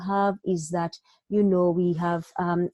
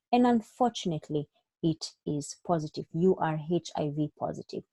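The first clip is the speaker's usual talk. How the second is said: softer, lower, careful delivery of the diagnosis; doctor softly telling a patient the result; gentle bad news; 3 semitones lower, 5 dB quieter than usual. Shown as a demonstration. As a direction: let it land gently. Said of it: "You have to say".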